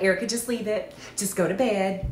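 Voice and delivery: lightly voiced soothing Southern mama. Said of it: "like, Southern mama".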